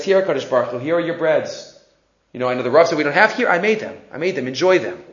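soft, low acted humility; quiet imitated offering; humble offering. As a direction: speak privately to God, simply. Man privately offers breads to God.

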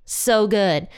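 a touch of sarcasm, sour and unimpressed; sarcastic. Acted. Older brother scoffing at news of his brother's return, mild sarcasm. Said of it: "the older son's like".

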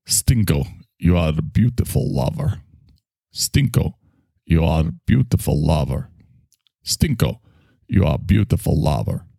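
lightly Russian-accented movie line. Shown as a demonstration. Repeating one Meryl Streep line to learn Russian, light Russian accent. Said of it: "I learned how to do Russian".

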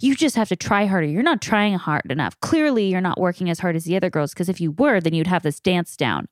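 fast, pushy, scolding parent; mock the nagging parent who pushes harder; critical parent. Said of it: "the critical parent is the one of like".

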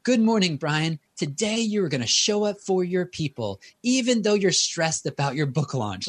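lightly voiced lady reading an affirmation; playing back his morning affirmation recording; Irish voice actress. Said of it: "I can't do the accent".

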